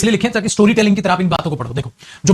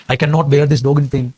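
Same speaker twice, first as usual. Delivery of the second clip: slow, drawn-out English sentence; slow dictation; 4 semitones lower, much slower than usual. Shown as a demonstration. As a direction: read it out slowly for copying. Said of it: "कई बार ये भी कर देते हो आप". (धीरे-धीरे पढ़कर सुनाना)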